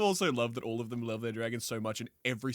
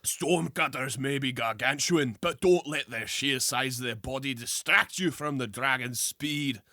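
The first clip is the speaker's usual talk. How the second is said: put-on Scottish accent. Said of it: "I think I'm going back Scottish".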